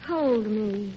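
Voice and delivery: tender, slow plea to a lover; melodramatic love scene. Acted. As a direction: play the swooning stage sweetheart, gently. Acting love scene in rehearsed sketch.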